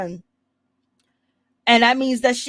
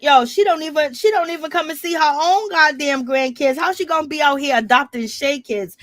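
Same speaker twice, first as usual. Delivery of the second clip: higher-pitched retold outrage; indignant complaint; 4 semitones higher than usual. Bambi complaining about Mama D's grandkids, indignant. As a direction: voice someone else's indignation, pitched up.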